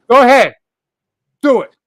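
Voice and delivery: high, loud and challenging; loud dare. Real, not acted. Streamer daring viewers to check the stream, loud high dare. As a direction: bark it as a dare.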